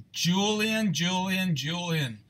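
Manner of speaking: sing-song name call. Real, not acted. Host hyping a viewer on a big hit, excited call fading. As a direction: call the name out excitedly, then let it drop.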